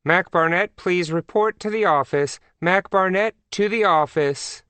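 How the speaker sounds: high, sing-song public announcement; high, formal call-out; secretary on intercom. A narrator's reading. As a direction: page a pupil over the school intercom. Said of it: "secretary's voice came in over the intercom".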